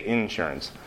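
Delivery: "insurance" stressed on IN; first-syllable stress. Retold or imitated. Pastor echoing a listener's answer, "insurance" stressed on IN. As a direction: lean on the opening IN of "insurance". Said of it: "like you just did".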